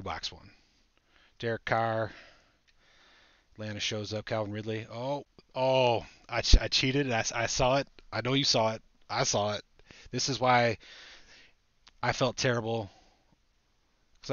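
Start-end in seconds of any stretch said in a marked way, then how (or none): 4.9-12.9 excited. Real, not acted. Excited he spotted a card early.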